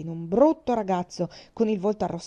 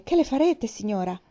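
sudden alarmed question; alarmed plea; 3 semitones higher, 6 dB louder than usual. Acted. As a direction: pitch leaps up, louder, alarmed. Alarmed Madame intervenes for the girl.

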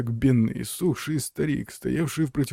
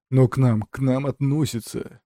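shouting. Acted. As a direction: insist in a panic. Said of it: "закричал Зафод".

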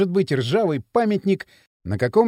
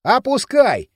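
louder, higher carefree toss-off; careless; 7 semitones higher, 6 dB louder, slower than usual. A narrator's reading. Kirill brushing off his friend's worry, carelessly. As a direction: throw it out without a care. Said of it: "беспечно ответил Кирилл".

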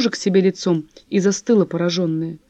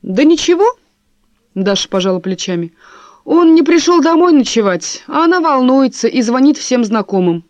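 higher, louder rushed telling; agitated; 5 semitones higher, 5 dB louder than usual. Acted. Wife telling husband about the missing man, high and loud. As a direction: spill it out worked up. Wife shrugs, tells news loudly.

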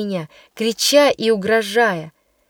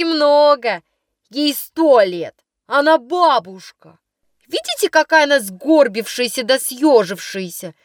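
mocking schoolgirl; 3 semitones higher than usual. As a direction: drag out the jibe about the grandmother. Girl mocks new pupil as grandmother.

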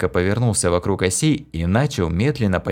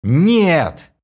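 despairing shout; 8 semitones higher, 5 dB louder than usual. A narrator's reading. Hero despairs.

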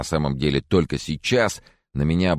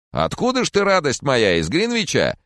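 put-on higher, louder chatty old gentleman; fussy old Mr. Corcoran, higher and louder; jolly old man; 12 semitones higher, 4 dB louder than usual. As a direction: play the doting old neighbour, up high.

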